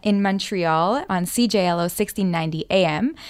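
slow, upbeat radio welcome; radio host. Real, not acted. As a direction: welcome listeners back on air. Radio show welcome back.

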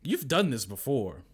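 loud, high, slow disbelief; scandalized exclamation; incredulous. Retold or imitated. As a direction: hammer the accusation in mock shock. Scandalized reaction to retold call.

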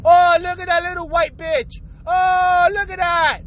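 mocking taunt. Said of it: "calling them a little bitch".

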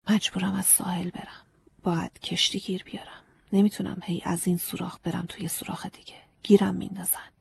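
soft, secretive whisper; whispered under breath. Acted. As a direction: breathe the words so no one hears. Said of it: "آروم زیر لب گفت".

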